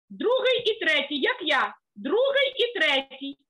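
put-on slow deliberate "Другий і третій" for kids; slow demo. Shown as a demonstration. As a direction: count the fingers out slowly.

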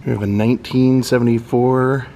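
ordinary delivery

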